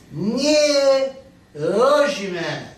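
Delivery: slow, drawn-out Polish pronunciation. Retold or imitated. Grandfather answers the immigration guy, in Polish. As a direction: imitate a Polish immigrant saying "Nie rozumiem". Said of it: "In Polish".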